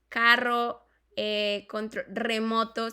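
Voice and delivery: "carro" and "remoto" with a strong trill; rolled Spanish R. Shown as a demonstration. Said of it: "Nosotros utilizamos".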